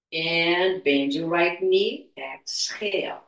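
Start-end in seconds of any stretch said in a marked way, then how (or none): none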